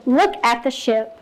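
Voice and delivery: slow, even, unhurried model line; paced calm reading. Shown as a demonstration. Teacher modeling echo reading for her class, slow and even. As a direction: read it slowly so seven-year-olds can keep up. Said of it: "So I would just go".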